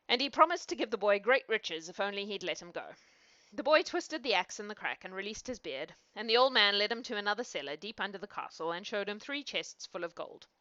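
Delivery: measured fairy-tale reading; storyteller's narration; story narration. A narrator's reading. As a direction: read it aloud as a bedtime tale. Reads a fairy tale aloud.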